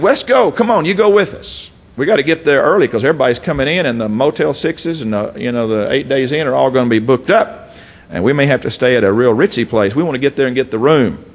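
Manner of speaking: pushy brothers urging him along; eager brothers. Acted. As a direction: hurry him like impatient siblings. Brothers urging Jesus, acted.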